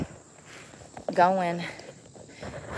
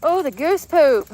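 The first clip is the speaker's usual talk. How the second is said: disgusted; 6 semitones higher, 6 dB louder than usual. Real, not acted. Disgust at goose poop on trail.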